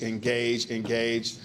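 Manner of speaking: engage, engage said slowly, each engage given its own weight; stressed repeat. Shown as a demonstration. New manager to chamber crowd, repeating engage with emphasis. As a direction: lean on engage, engage to drive the word home. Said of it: "put a strong emphasis on the word engage".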